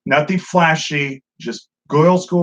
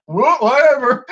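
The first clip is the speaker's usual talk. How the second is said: dismissive shrug; 8 semitones higher, 5 dB louder than usual. Retold or imitated. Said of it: "It's like".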